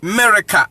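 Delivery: AMERICA split as "AH... merika"; Akan A in AMERICA. Shown as a demonstration. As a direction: say AMERICA with a long "ah" first. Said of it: "the original pronunciation".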